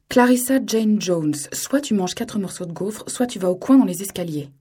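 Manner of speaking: a father laying down the law; stern father. Acted. Father sternly warning his defiant daughter.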